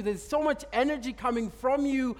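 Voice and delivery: drawn-out wondering report; slow awed quote. Retold or imitated. Man in the square tells the preacher in slow awe. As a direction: let each word hang in awe. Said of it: "It's like".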